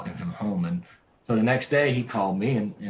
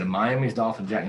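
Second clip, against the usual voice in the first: incredulous echo; 4 dB louder than usual. Retold or imitated. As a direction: repeat "Miami's Dolphin jacket" as a light, surprised question. Incredulous echo of friend's words.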